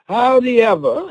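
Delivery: "Howdy ever" said Mama's folksy way; "Howdy ever" for "however", as Mama says it; Mama's saying. Retold or imitated. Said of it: "as Mama would say".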